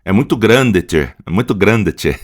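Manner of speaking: a hint of southern Brazilian gaúcho, hard d in grande; light gaúcho accent. Teacher jokingly imitating a southern speaker: mild gaúcho accent. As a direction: toss in a gaúcho tchê, lightly. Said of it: "em alguns estados, eles falam mais seco".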